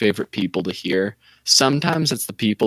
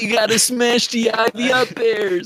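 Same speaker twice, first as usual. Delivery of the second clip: play-acted, very high, drawn-out yell; 14 semitones higher than usual. Retelling a kid who yelled advice at a player: imitating a kid yelling. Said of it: "yelled out to Hungry Bucks".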